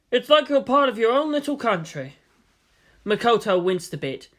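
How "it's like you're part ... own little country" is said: rotund director. Acted. Yanda explains nerve.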